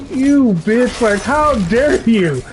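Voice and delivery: high, indignant how-dare-you; outraged at the dog. Retold or imitated. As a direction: play it betrayed and outraged. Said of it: "I was like".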